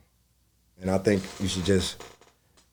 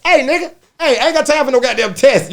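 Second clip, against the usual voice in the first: much higher and louder comic yell; mock outburst; 10 dB louder than usual. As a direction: blow up at the paperwork guy. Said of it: "I said".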